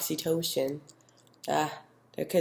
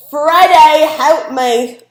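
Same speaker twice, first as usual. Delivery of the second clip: desperate plea; 10 semitones higher, 15 dB louder, much slower than usual. Real, not acted. Begging co-host amid chaos.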